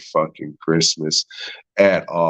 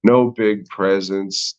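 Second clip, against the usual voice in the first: slower, lightly slurred mock Spanish accent on "no big presents"; a hint of a drunk Spaniard; 2 semitones higher than usual. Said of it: "says it like a fucking drunk Spaniard".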